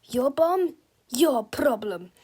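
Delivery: slow, booming giant menace; giant robot villain. Acted. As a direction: speak like a huge menacing machine. Giant Super Mega Tippy voice.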